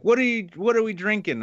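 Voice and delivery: a hint of a keen drinking buddy; imitating Lacey. Imitating Lacey asking what they're drinking. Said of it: "She's like".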